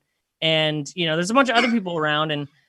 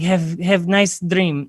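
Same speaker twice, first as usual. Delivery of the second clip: put-on slow, halting Eastern European accent; put-on Eastern European broken English; much slower than usual. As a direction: imitate an Eastern European woman, drawn out. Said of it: "she looked like Eastern European Snooki".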